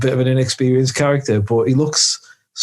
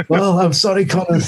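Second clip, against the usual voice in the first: higher-pitched film parody voice; mock Highlander; 6 semitones higher than usual. Returning Dougal breaks news about Connor, mock character voice. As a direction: play the apologetic comrade, pitched up.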